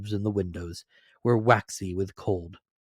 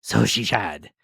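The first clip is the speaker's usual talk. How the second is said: cried out; 5 dB louder, slower than usual. Acted. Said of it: "cried Scrooge".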